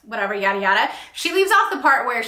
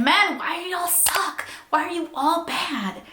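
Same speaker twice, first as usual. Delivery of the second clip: mock exasperation; 6 semitones higher than usual. Scolding men in the book.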